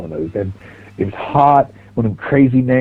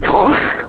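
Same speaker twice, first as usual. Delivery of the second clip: imitated spray noise; 6 semitones higher than usual. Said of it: "he would just fucking".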